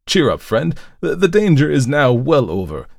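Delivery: high, lifted, hearty encouragement; rally an injured friend; emphatic, heartening priest; cheering reassurance. A narrator's reading.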